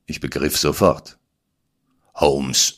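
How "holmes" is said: "Holmes" dropped in a falling, outraged bark; indignant. Acted. Watson outraged at Holmes, indignant falling call. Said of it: "empörte ich mich".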